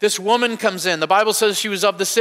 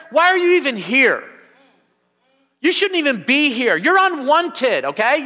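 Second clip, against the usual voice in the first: higher, mocking disdain for an outcast; scornful Pharisee; 3 semitones higher than usual. Preacher voicing the Pharisees scorning the woman, contemptuous. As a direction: sneer down at the sinful woman. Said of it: "the Pharisees said in their mind".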